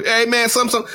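high, hinted imitation of the worker's hesitant start; imitating the worker. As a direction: stammer "some, some" in his voice. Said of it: "So, I".

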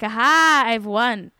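loud, triumphant "aha" then settling; lightly acted gotcha; gloating sibling. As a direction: crow it like a mock-victorious sibling. Gloating sibling voiced in a story.

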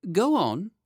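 put-on high, loud boyish prompt; eager boy king. A narrator's reading. Lionel urging the Chancellor on, eager high boy voice. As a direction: urge him on in a high child's voice.

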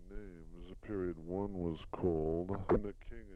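reading text aloud with spoken punctuation; steady measured dictation to a secretary. Shown as a demonstration. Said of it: "That's the end of dictation".

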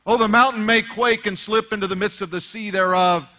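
usual speaking voice

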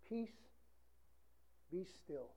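whispered "Peace, be still"; hushed command. Shown as a demonstration. Preacher repeating the verse to the congregation, hushed. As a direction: breathe the words to calm a sea.

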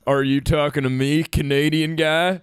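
lightly put-on Canadian accent; a hint of a Canadian twang. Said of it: "My Canadian accent?".

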